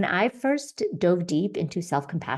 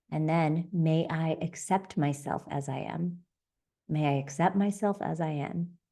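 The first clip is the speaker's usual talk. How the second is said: slow meditation phrases. Shown as a demonstration. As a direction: murmur it to yourself like a prayer. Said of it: "And I say to myself".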